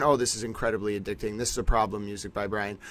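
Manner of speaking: soft, low and quick; hushed. Real, not acted. Gamer murmuring to the developer while playing. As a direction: murmur it under your breath.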